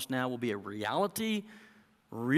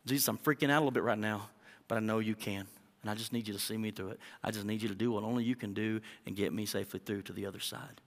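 calm prayer; faster than usual. Acted. Believer praying in the storm, calm trusting voice. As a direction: pray it gently and surely. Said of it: "I think that's okay".

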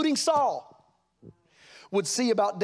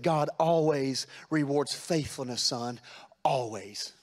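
slow, low, solemn prophet's blessing; quoting the prophet; 3 semitones lower, slower than usual. Retold or imitated. Preacher quoting a prophet's blessing to a young man, solemn and slow. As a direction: lower and slow it down like an old prophet.

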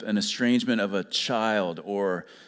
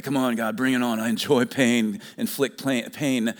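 mock masochist. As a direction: play a mock spiritual masochist begging for pain. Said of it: "like, spiritual masochist".

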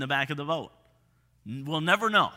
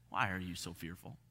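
much softer and lower, almost hushed; soft gentle question; 12 semitones lower, 14 dB quieter than usual. Retold or imitated. Jesus turning to frightened disciples, soft hushed question. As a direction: ask it tenderly, barely above a breath.

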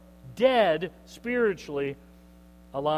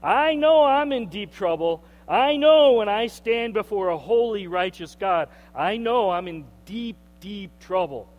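desperate confession; 6 dB louder than usual. Retold or imitated. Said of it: "they know they're not good".

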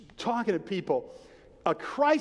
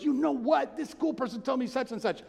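high-pitched imitation of a son; lightly acted, raised-pitch excitement; excited retold son; 5 semitones higher than usual. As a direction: mimic a son eagerly sharing news. Retold son excitedly reports by phone.

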